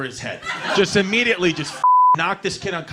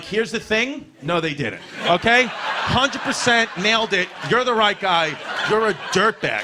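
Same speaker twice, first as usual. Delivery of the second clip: telling dad off; 5 semitones higher, 4 dB louder than usual. Retold or imitated. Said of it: "I'm like".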